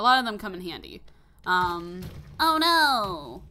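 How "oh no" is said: surprised. Real, not acted. Sudden mishap in game.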